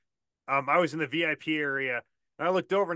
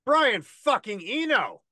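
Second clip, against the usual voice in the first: excited fan yell, drawn out and higher; retold yell; 6 semitones higher, 4 dB louder, slower than usual. Fan yelling at his idol on tour in Vegas, drawn-out yell. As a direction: holler the name slowly, stretching each word. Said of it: "I yelled".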